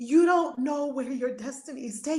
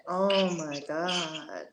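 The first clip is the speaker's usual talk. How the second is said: tearing up; 5 semitones lower than usual. Real, not acted. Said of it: "I might be crying again".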